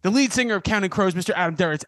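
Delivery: big booming show intro; announcer intro. Acted. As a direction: introduce him like a headliner. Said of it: "was that a little heavy for the intro".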